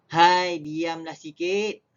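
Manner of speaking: stern hai; annoyed. Shown as a demonstration. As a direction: hush a noisy person sternly. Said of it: "Dua perbezaan intonasi".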